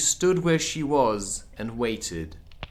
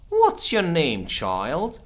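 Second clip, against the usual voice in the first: higher, louder royal question; imperious Queen; 5 semitones higher, 4 dB louder, slower than usual. Acted. The Queen turns to question Alice, haughty. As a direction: look down on the child.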